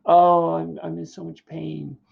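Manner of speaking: complaining. Acted. Nurse messing with Juliet, hammed-up complaining. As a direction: whine in exaggerated pain. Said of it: "She's just complaining".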